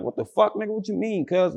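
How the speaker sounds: retold shock at being ambushed; startled disbelief. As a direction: caught off guard and confused.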